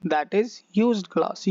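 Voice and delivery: slow, word-by-word teaching read; slow teacher voice; slow dictation. Shown as a demonstration. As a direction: spell it out slowly for learners. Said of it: "used glass मतलब उपयोग किया हुआ है".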